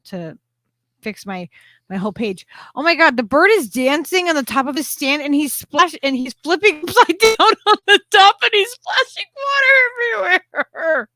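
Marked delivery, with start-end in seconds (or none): 2.7-11.1 laughing while describing the bird; words breaking into real laughter. Real, not acted. Owner laughing at her splashing bird.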